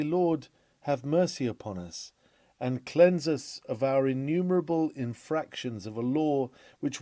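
sincere, sober plea, "Lord" falling; mean every word of the confession; earnest contrite prayer. Retold or imitated. Preacher voicing a truly convicted sinner, earnest. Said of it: "if they did but know it".

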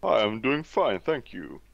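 put-on polite British accent; lightly hammed British greeting. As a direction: answer in your best British accent. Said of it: "Was that your best British accent?".

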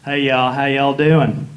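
hammed-up Southern greeting; thick Southern "y'all" put on; mock Southern drawl. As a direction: lay on a Southern accent for a laugh. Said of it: "We really don't talk like that in Atlanta".

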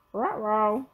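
cartoon dog talking; dog-mouthed talking voice; Scooby barking. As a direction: bark the words like a worried dog. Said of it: "Scooby barked".

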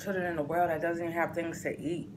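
chewing between words; talking while eating noodles. Real, not acted. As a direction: mouth full of noodles. Seen 1: Lifts noodles to mouth while talking; noodles at lips 8.6-10.6.

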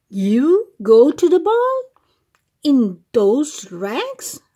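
scornful sneer, loud on ball; mocking stepsisters. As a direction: sneer at her like a mean sister. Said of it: "they cackled".

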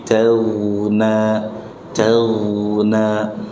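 Calna softened, no g stop; smooth it out further; smoothed ghain. Shown as a demonstration. Teacher modelling the smoother ghain. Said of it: "haluskan lagi".

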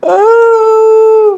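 high crying groan. Real, not acted. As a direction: let out a real pained groan. Crackers dropped.

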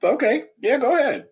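surprised okay. Retold or imitated. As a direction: caught off guard, then giving in. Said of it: "I'm like".

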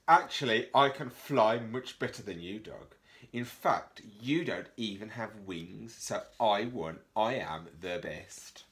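loud, smug boast; bragging ladybird. Acted. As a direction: show off to Dog. Ladybird brags at Dog.

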